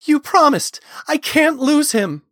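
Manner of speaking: high, loud wail of protest; anguished, shrieked pleading; desperate plea. A narrator's reading. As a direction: beg frantically at full pitch. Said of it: "pleaded Talon".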